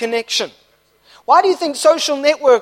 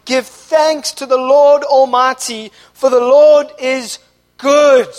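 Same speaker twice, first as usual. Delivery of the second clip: shouted praise; 5 dB louder, slower than usual. Acted. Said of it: "they're shouting".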